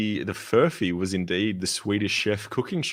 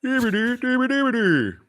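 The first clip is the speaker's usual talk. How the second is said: high sing-song mock chef babble; Swedish Chef gibberish; 4 dB louder than usual. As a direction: Muppet chef nonsense chatter.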